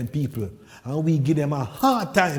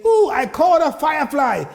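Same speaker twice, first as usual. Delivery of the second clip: high, loud mock American exclamation; poking fun at Americans, hammed-up chirp; 8 semitones higher, 4 dB louder than usual. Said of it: "You guys... may say".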